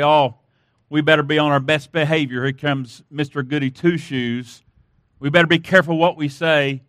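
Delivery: lightly voiced wary coworkers, low and quick; mocking coworkers. Workers warning each other as Mister Goody Two Shoes comes, lightly mocking. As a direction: drop low and hurried, lightly imitating grumbling workers. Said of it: "they would say".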